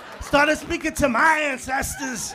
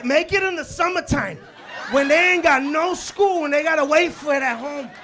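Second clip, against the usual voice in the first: comic rant; 6 dB louder than usual. Real, not acted.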